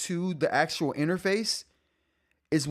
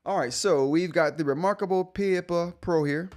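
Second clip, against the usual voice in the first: put-on light, playful Jamaican accent; offhand mock Jamaican lilt; 4 semitones higher than usual. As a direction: slip into a bit of a Jamaican accent. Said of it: "I said that with a Jamaican accent".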